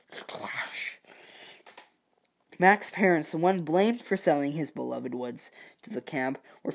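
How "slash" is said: breathy sound-effect whisper of a slash; hushed, drawn-out slashing noise. Pretend. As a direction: whisper it like a blade swipe.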